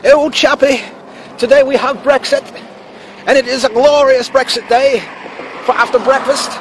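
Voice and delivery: high, theatrical fake British voice; mock British accent. Host announcing Brexit day to a chappie, in a mock British accent. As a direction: play up a caricature British chap. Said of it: "Let me put this in my best British accent".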